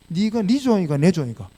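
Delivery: put-on Gyeongsang-accented question; Gyeongsang dialect. God questioning the preacher at prayer, in Gyeongsang dialect. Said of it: "주님이 경상도 분이시라는 거".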